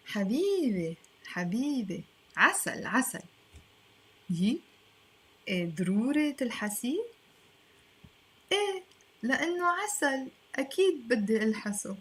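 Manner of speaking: lightly acted, fast dialogue read. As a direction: read the scene like the smitten speaker. Reads dialogue in role.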